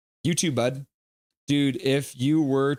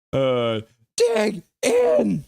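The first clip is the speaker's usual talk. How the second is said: slow dig in; 6 semitones higher, 4 dB louder, much slower than usual. Pretend. Slow far voice, clip-like.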